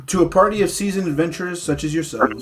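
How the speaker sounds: story narration. Acted. DM narrating the opening scene to his players, dramatic storyteller voice. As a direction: paint the foggy tavern for the players.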